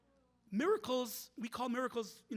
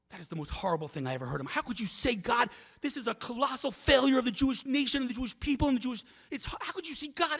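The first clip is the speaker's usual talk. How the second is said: louder, higher retold scolding as it builds; mock indignant tirade; 4 semitones higher, 6 dB louder than usual. Lady interrupting the speaker mid-sentence, mock indignant outburst. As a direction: imitate a lady going at the speaker. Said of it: "she was going at me".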